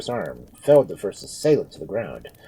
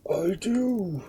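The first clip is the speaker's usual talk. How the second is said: high, thin failing voice; feeble dying words; 10 semitones higher than usual. A narrator's reading. Dying Sir Ambrose granting forgiveness, feebly. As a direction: forgive him with failing breath. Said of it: "Words feebly ebbed from his lips".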